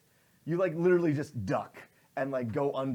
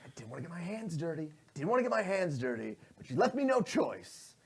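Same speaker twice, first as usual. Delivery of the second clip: villain's menace; 4 semitones higher than usual. Acted. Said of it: "He's like".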